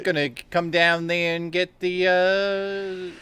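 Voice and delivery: put-on high, drawn-out botched Western accent; failed Western accent. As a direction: stall midway through a fake Western accent. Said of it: "a Western accent".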